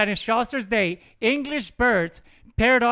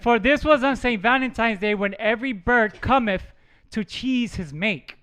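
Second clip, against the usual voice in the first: reading a quote aloud. Shown as a demonstration. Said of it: "this is a quote".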